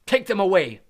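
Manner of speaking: loud furious roar. Acted. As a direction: roar at the Dementors, spitting. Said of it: "Crouch roared".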